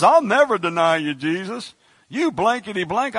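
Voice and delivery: loud boastful vow, then a mock curse; brash Peter vow. Peter swearing loyalty to Jesus, loud and brash. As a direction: shout the vow like a hothead fisherman.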